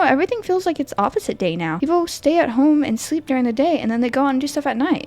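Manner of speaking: put-on high, sweet little girl asking for daddy; timid child's voice, pitched high. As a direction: play a scared small child at the door.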